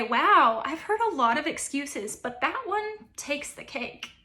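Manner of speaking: dry, slowed sarcasm, pitch rising on the last line; unimpressed mock praise for a lame excuse; sarcastic. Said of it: "someone's talking about something maybe foolish".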